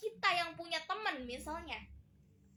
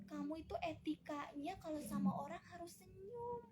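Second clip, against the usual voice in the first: high-pitched scolding singsong, rising as it goes; mother's mock telling-off, pitched up and climbing; lecturing mother; 6 semitones higher, 3 dB quieter than usual. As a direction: nag a sulking child in a raised pitch. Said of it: "Terus kita ngomong gini".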